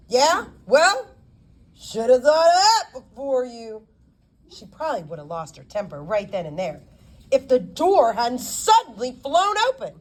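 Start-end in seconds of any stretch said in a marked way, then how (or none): 0.1-3.9 higher, louder sneering jab; mock her with a laugh in it; scornful retort. Lawyer sneering back at the girl, scornful.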